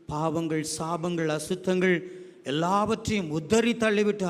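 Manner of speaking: earnest, flowing closing prayer to the Lord. Real, not acted. Pastor praying for the children after the hymn, earnest prayer voice.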